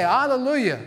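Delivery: high, loud ringing shout; thunderous hallelujah. Retold or imitated. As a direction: shout it like a vast crowd. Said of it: "sound like cascading waters ... loud thunder".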